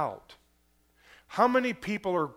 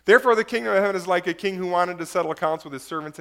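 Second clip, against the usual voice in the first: fast, a bit louder reread; quick reread; 5 dB louder, much faster than usual. Shown as a demonstration. Pastor rereads the passage from the other translation, fast and brisk. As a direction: rattle it off again from the new text. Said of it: "Let me read it here".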